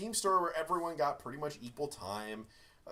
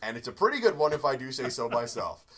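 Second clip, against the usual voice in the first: Ego quote; 6 dB louder than usual. Retold or imitated. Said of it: "when he sees Ego".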